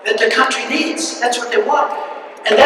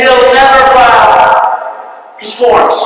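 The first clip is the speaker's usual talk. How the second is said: mock pundit shout; 5 dB louder, much slower than usual. Mocking pundits' predictions.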